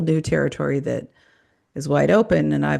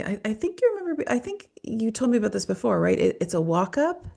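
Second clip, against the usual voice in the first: much higher, quick playful prompt; high casual question; 6 semitones higher than usual. Retold or imitated. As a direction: lightly voice a coaxing therapist. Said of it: "and I'd say".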